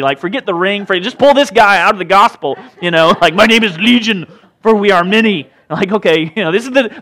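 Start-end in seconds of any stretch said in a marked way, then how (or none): 3.3-5.5 mock demonic voice, lightly hammed up; playful possessed-man voice; horror-movie demon. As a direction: put on a movie demon's menace. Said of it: "they want a horror movie".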